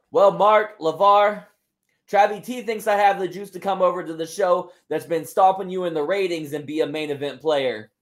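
put-on wrestler's crowd-rousing promo in a Spanish accent; Thunder Rosa, accented promo. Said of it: "allowed to do this accent".

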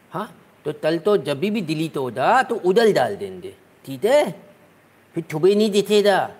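put-on slow, lisping little-kid voice; lisping baby talk. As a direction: explain it like a lisping toddler. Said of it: "आज ही आपने तुतला कर बोला".

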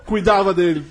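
Portuñol with a Spanish lilt; half-Spanish airport story; portuguese spanish mix. Pretend. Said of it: "meu espanhol, que é também de outro nível".

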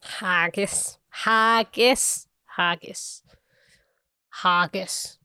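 put-on trying out a Scottish accent; word-by-word practice at sounding Scottish. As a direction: attempt a light Scots lilt. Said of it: "That's a really good Scottish accent".

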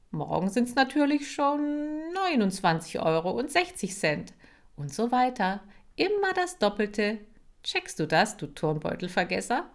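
high, mocking singsong of his threat; mocking echo. Kira mimicking Marcel's interest threat to mock him. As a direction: turn his words back on him.

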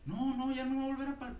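high mock voice. Retelling a neighbor's fight.

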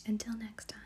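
hushed storyteller whisper throughout; whispered story. Acted. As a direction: breathe every word like a bedtime story. Whispered bedtime story reading.

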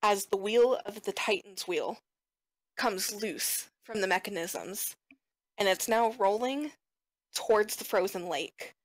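measured scene-setting with dramatic pauses; game master narration. Acted. Game master tells players of the runaway wheel, measured narration. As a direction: narrate the danger in deliberate phrases.

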